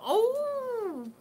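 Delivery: choked up, sorry to hear it; tearful apology. Real, not acted. A streamer answering a grieving viewer, tearful. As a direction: voice cracking with real tears, rising high and slowed. Moved by a viewer's comment about mother.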